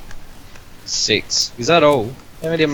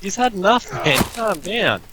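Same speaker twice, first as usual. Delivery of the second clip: panicking gamer; 9 semitones higher, slower than usual. Real, not acted. Frantic fight with a madman.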